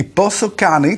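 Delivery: Πόσο Κάνει said slowly with an English accent, stress on Πόσο. Shown as a demonstration. Host jokes about the app's name, English accent. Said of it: "το λέω με αγγλική προφορά".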